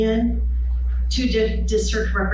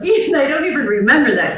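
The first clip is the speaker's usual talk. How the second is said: higher and louder, laughing through the words; laughing reply; 5 semitones higher, 5 dB louder, faster than usual. Real, not acted. Teacher laughing as she answers her former student. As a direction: giggle it out, quick.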